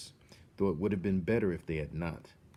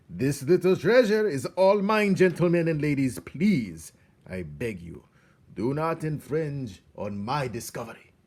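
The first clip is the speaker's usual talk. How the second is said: high, loud mock-polite warning; grand greedy rat; 7 semitones higher, 9 dB louder than usual. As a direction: lord it over the others. Botticelli warns other rats.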